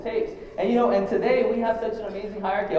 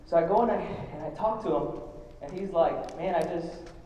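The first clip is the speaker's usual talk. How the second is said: holding back tears; 4 semitones lower than usual. Real, not acted. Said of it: "I'm gonna try not to cry again".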